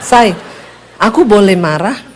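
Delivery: mock meek request to be angry; polite permission-asking anger. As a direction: imitate overly polite anger. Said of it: "marah juga dia permisi".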